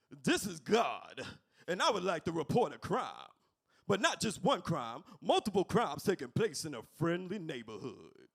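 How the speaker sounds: light Bernie Mac voice. Acted. God calling a snitch hotline, lightly in Bernie Mac's voice. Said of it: "why you sound like Bernie Mac".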